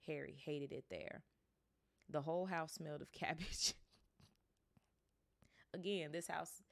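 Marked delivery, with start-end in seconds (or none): 2.1-3.7 laughing while reading. Real, not acted. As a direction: laugh breaks in before cabbage. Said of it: "It's so funny".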